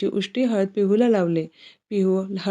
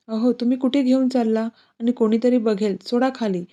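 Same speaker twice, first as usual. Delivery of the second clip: higher, anxious fussy protest; worried someone will see; nervous protest; 3 semitones higher than usual. Acted. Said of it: "चिडतच इकडे तिकडे बघत घाबरत". (घाबरत चिडलेली विनंती)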